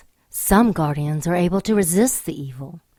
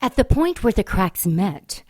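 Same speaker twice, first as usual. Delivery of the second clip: story narration; 2 semitones lower than usual. A narrator's reading. Narrator's ominous scene setting.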